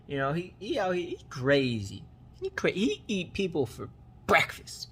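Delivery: lightly voiced tough guy bragging; mock tough talk to intimidate a boss; tough act. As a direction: put on a hint of swagger, retelling a bluff. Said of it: "putting on his tough acts".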